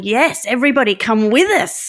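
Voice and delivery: mildly excited, pitch lifted; a bright-eyed rallying call, lightly acted; lit-up enthusiasm. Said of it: "makes you all light up".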